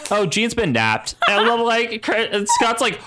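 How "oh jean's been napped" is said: slow, offhand mock announcement; drawn out, unbothered retelling; casual. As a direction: imitate someone dropping news casually. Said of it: "Kurt casually says".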